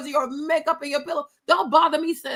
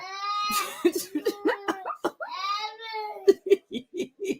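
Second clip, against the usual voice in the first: breathless laugh; 6 semitones higher, 8 dB quieter than usual. Real, not acted. Laughing at Maverick.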